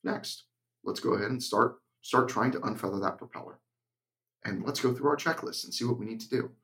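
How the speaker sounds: even, unhurried instructor voice with no emotion; monotone. Shown as a demonstration. Flight instructor calmly guiding a student's landing, flat monotone. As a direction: talk the student through it like reading a checklist. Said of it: "I teach in monotone because there's no stress".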